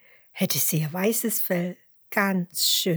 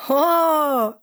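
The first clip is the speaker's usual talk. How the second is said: loud, high amused Ho; surprised ho; 9 semitones higher, 8 dB louder than usual. A narrator's reading. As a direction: burst out with a surprised Ho. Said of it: "antwortet Huberto".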